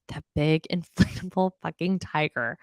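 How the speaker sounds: laughing through the word big; repeating the big inflatable tiger while cracking up. Real, not acted. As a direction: breaks into a laugh mid-phrase, amused.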